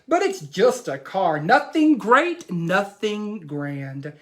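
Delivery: put-on lively read-aloud as young Jack; animated picture-book reading; reading to children. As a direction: tell the boy's boast to the class.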